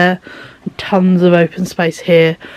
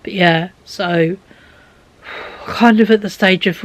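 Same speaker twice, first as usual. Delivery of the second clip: normal talking voice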